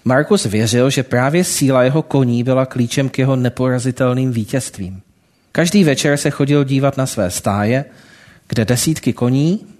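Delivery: lightly voiced storytelling read to the congregation; story narration. A narrator's reading. Preacher telling the congregation a parable, storytelling voice. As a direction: tell the parable steadily, drawing listeners in.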